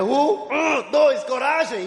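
re-enacted count for courage; psyching himself up. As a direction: count yourself into a leap. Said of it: "eu contei até três".

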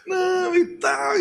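very high, slow sneer; mocking. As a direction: drag it out in mockery. Neighbour brushing off.

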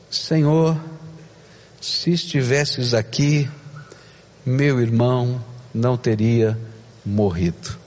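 broken, lowering voice of a grieving sister; grieving plea. Acted. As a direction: let Maria's plea sink into grief. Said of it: "explodindo em emoção".

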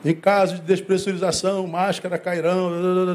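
lightly voiced safety announcement; flight attendant. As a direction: recite it like cabin crew, lightly. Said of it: "Você que já andou de avião".

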